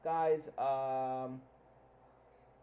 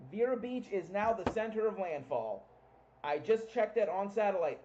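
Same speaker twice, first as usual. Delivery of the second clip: excited; 4 semitones higher, 3 dB louder than usual. Real, not acted. Reporting landfall with excitement.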